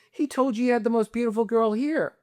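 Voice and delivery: high-pitched imitation of an outraged girlfriend; retold scolding. Girlfriend berating him on the plane, high mock outrage. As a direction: mimic her accusing him, voice pushed high. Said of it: "she's screaming at me".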